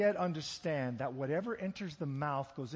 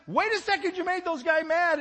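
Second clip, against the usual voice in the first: higher, loud urgent warning; worried Peter; 14 semitones higher, 13 dB louder than usual. Retold or imitated. Peter warning Jesus about angry Pharisees, loud urgent plea. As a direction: Peter pulling Jesus aside in alarm. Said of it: "Peter comes back and says".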